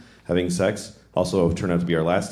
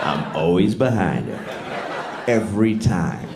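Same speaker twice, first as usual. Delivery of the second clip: mock smug brag; 3 semitones lower, much slower than usual. Mock bragging aside.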